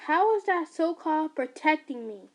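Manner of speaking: loud, pointed challenge; angry demand. Acted. Son angrily confronting his mother. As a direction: challenge her claim hard.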